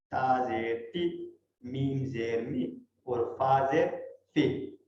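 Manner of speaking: slow spelling, تی می فی kept short; short i vowel. Shown as a demonstration. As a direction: clip each i short. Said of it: "بالکل short cut".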